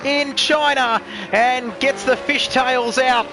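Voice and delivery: excited play-by-play call; race commentary. Acted.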